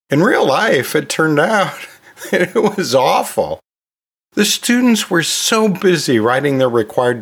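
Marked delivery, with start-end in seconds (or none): 0.9-3.6 laughing through the admission. Real, not acted. Podcast host to teachers, laughing at her own flop. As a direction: chuckle at how badly it went.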